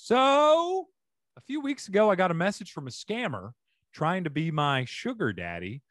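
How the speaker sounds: animated read-aloud with swinging pitch; reading a post aloud. A narrator's reading. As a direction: read the letter out like a lively storyteller. Reads a Reddit post aloud.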